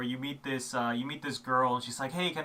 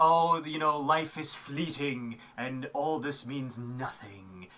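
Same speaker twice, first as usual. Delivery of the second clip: slow, posh, lofty, kingly narrator voice; 3 semitones higher, 8 dB louder than usual. Speaker describes a battle narrator, imitating his posh nobleman narrator voice. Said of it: "he sounds like a nobleman".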